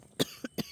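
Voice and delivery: soft throaty cough after swallowing a bug; small cough to clear the throat; quiet cough. Real, not acted. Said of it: "I swallowed a little gnat".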